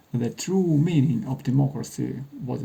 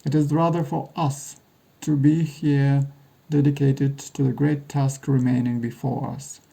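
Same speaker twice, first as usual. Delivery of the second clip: sharp, clear recitation. Acted. Jim recites Lincoln's address where it was given, sharp clear oratory. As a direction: open the speech as if to a crowd. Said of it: "Jim's voice is sharp and clear".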